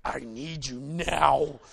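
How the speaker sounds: pleading. Retold or imitated. Pleading for his wife's help.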